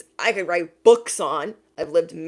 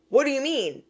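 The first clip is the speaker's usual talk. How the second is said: shocked question; 8 semitones higher than usual. Retold or imitated. Shocked quote.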